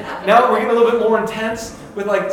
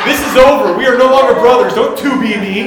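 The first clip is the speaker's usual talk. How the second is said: loud, high, indignant retort; mock outrage; 5 semitones higher, 10 dB louder than usual. Retelling fight with teasing brother, loud mock outrage. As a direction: lay down the law with hammed-up fury. Retold furious reply to brother.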